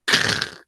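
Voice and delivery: short, harsh crackling mouth noise; imitated branch crack. Hunter imitating a branch snapping in the dark, mimicked crack. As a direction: make the crack of breaking wood. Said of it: "I hear this big old crack".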